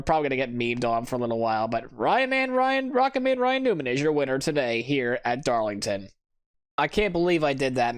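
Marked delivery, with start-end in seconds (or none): 2.0-6.1 a playful nod to a broadcast winner call; mock announcer. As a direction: announce the winner like a TV booth, lightly. Racing game winner announcement.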